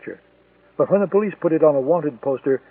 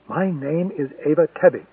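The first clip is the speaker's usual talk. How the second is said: like a mantra; 3 dB quieter, slower than usual. Acted. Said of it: "she repeated like a mantra".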